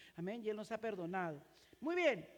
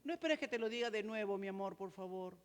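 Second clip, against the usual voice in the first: gentle reminder; 3 semitones lower, 3 dB quieter than usual. Shown as a demonstration. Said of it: "nuevas maneras de hablar".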